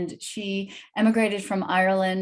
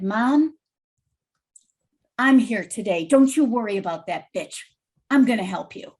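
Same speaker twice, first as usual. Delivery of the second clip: louder, protective reassurance; louder, determined promise to a frightened mother; firm reassurance; 5 dB louder than usual. Retold or imitated. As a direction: take charge and comfort her. Daughter reassures distressed mother firmly.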